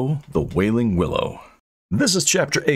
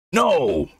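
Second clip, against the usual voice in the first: restrained acted scream; 9 semitones higher than usual. A narrator's reading. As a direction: cry out to be heard over a din. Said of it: "Wulfric screamed to be heard".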